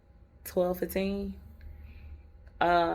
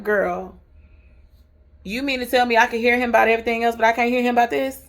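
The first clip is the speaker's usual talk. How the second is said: incredulous self-talk; 5 semitones higher, 7 dB louder, faster than usual. Acted. Scolding herself in disbelief.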